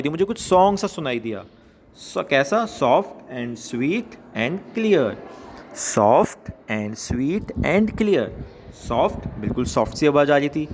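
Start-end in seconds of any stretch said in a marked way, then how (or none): 2.7-8.3 very slow, word-by-word poem reading; slow read-aloud. Shown as a demonstration. Teacher reading a poem line to schoolchildren, slow and measured. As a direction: draw out each word for pupils to follow.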